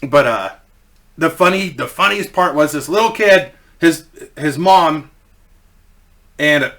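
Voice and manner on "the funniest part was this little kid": ordinary delivery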